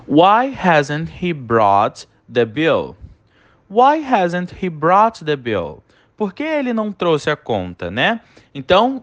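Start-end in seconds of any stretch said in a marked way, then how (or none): 0.1-5.8 slow dictation. Shown as a demonstration. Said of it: "Olha aí a nossa primeira frase".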